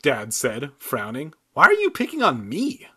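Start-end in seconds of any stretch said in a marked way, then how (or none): 1.5-2.9 high, loud protest; indignant cry. A narrator's reading. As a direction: wail it like a wronged kid. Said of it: "I cried".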